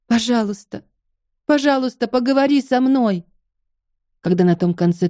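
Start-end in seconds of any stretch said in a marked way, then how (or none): 0.1-3.2 desperate pleading. Acted. Begging silent phone line.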